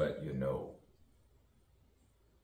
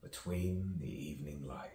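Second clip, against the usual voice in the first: soft unvoiced whisper; 5 dB quieter than usual. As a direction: breathe it like a secret. Whispered line.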